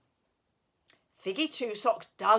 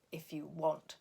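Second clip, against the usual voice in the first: indifferent; 4 semitones lower, 5 dB quieter than usual. Acted. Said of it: "said Big Smudge".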